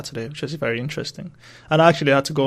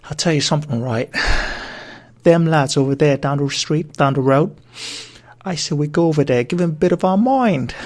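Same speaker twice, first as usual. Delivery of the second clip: lightly done Cockney gangster, a bit louder; Cockney gangster accent; 2 semitones higher, 5 dB louder than usual. Acted. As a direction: tough London geezer talking up a fight, Cockney. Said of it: "start the podcast with my Cockney accent".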